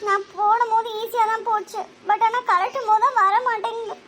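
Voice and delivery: high-pitched, weepy explaining; tearful. Acted. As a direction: explain helplessly through tears. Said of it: "அதுக்கே அழுகுற". (அழுதுகொண்டே உயர்ந்த குரலில்)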